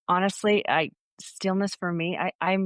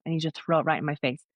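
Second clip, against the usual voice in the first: faster, insistent repeat of "throw it right in my face"; demanding; 2 semitones lower, faster than usual. Retold or imitated. Retelling her demand to God, now more insistent and fast. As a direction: push the demand harder, words tumbling out. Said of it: "I kinda demanded".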